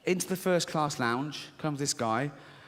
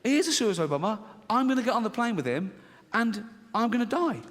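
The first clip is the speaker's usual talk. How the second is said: panicked thought; 5 semitones higher, faster than usual. Retold or imitated. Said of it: "I think".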